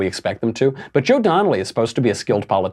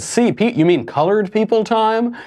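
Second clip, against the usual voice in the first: mock question; 12 semitones higher than usual. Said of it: "They said".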